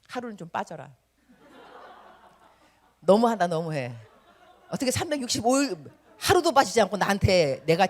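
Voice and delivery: laughing as a fed-up God; half-laughing mock exasperation. God tired of daily whiners, laughing exasperation. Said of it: "말씀하고 싶을 것 같아요".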